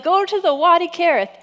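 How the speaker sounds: loud, high-pitched order; acted command. Preacher voicing God sending Elijah off, loud acted command. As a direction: call out the marching orders.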